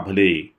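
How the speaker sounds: भले stretched long at the end; drawn-out word. Acted. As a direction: draw out भले slowly. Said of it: "त्यानं भले हा शब्द लांबवला".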